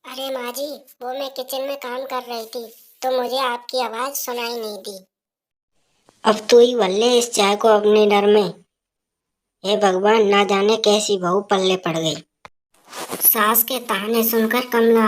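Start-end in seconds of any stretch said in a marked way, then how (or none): 0.0-5.0 put-on soft, timid young wife offering tea; softly offering tea to her mother-in-law; meek daughter-in-law. 6.2-12.1 put-on a scolding old woman calling for her tea; mother-in-law shouting for her tea, scolding; nagging mother-in-law.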